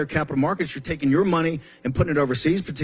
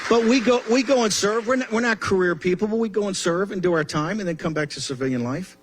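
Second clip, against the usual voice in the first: rally speech; 5 semitones higher than usual. Real, not acted.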